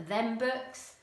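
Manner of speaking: "Them books" said casually; casual dialect for "Them books"; non-standard English. Shown as a demonstration. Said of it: "we might hear in non-standard".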